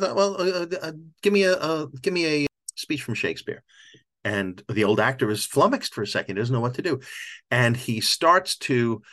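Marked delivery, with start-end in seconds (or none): 0.0-3.6 lightly voiced showman, a little higher; tossing out a casual challenge; El Gallo. El Gallo challenging the old actor, lightly voiced showman.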